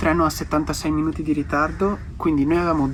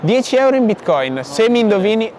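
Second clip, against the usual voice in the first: raised voice hailing passersby; calling out; 3 semitones higher, 3 dB louder than usual. Real, not acted. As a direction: call out to people walking past.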